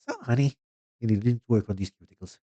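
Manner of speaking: second try, high So, honey then settling, stress on work; retry the New York accent, leaning on work. Pretend. Manicurist scolding Carl about his cuticles, milder mock New York accent. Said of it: "yeah, let's try".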